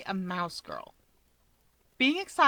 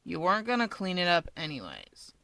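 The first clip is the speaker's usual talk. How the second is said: flat; 2 semitones lower, 3 dB quieter than usual. Acted.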